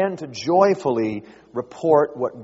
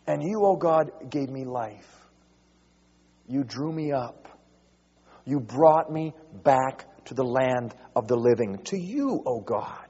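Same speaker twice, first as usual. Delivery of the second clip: hushed prayerful reading. Acted.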